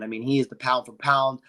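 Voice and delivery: tired, rough hungover voice. Real, not acted. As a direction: talk like the morning after a long night. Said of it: "my little bit of hungover voice".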